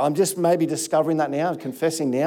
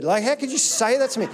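higher-pitched mock indignation; mock offended; 5 semitones higher than usual. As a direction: play the wounded chocoholic. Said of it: "I was almost offended".

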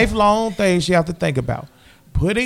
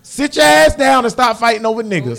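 scolding quote; 4 semitones higher than usual. Retold or imitated. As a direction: scold the girls for fighting. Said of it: "Stephanie said".

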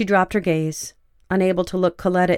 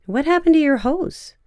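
Coletta voice; 9 semitones higher than usual. A narrator's reading. Coletta asks, voiced higher.

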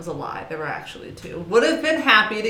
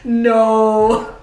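flat refusal; 3 semitones higher, 10 dB louder than usual. Retold or imitated. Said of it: "was like".

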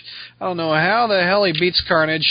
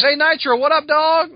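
street-casual Spider-Man; 5 semitones higher than usual. Acted. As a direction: greet him like an old buddy. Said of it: "a little ad lib there".

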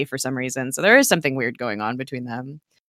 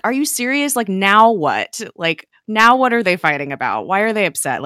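high, louder, exasperated disbelief; incredulous outburst; 5 semitones higher, 6 dB louder than usual. Retold or imitated. Viewer reacting to the characters fighting, incredulous and pitched up. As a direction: retell your own shocked reaction, pitched up. Retelling her own reaction to arguing.

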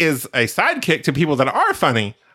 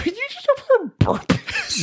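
playful shout. Real, not acted. Teasing shout over noise.

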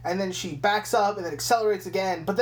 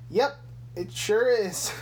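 over it; 2 semitones higher, slower than usual. Retold or imitated. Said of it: "she's just so fucking, like, over it".

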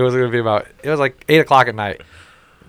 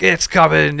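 mock TV yelling; 5 semitones higher, 4 dB louder, slower than usual. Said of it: "yelling like we're on".

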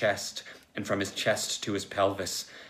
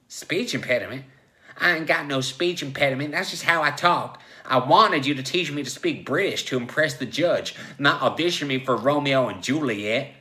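higher, loud ranting protest; indignant; 5 semitones higher, 6 dB louder than usual. Acted. Joe rebuts the therapist's diagnosis, indignant. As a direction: argue back, getting louder.

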